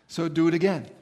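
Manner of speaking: a loud, forceful "again", pushed out hard. Retold or imitated. Demanding God repeat the sign of stars, loud and forceful. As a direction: insist on it, punch the whole line.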